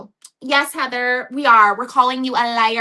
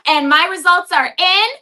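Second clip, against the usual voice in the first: raised, sassy i-told-you-so; smug retort; 4 semitones higher than usual. Pretend. Cast member taunting accusers about her test results, sassy. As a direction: flaunt that the results are in. Imagined retort on reality show.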